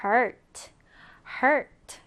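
"hurt" said alone, ending on a crisp t; "hurt" given twice with a pause for learners to repeat; model pronunciation. Shown as a demonstration. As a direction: pronounce "hurt" carefully as an English model. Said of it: "자, 발음해볼까요?".

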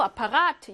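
아파가트 with the weight on 가트; stress on third syllable. Shown as a demonstration. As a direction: lean late, on 가트 in 아파가트. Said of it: "이렇게 삼 강세일 확률". (아파가트의 '가트'에 강세)

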